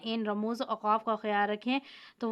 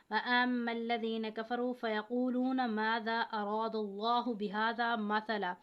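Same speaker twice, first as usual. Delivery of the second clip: Quranic recitation. Shown as a demonstration. Recites Quran verse as example.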